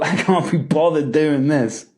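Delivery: a sigh of a line, weighed down; heavy, can't-be-bothered tone; heavy, unmotivated. Shown as a demonstration. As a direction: say it like you're drained. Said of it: "That's a heavy feeling".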